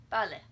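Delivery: "Bale" as Spanish BAH-leh, short, no puff; unaspirated B. Shown as a demonstration. Teacher models the Spanish word, "Bale" without puff. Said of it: "Just like that".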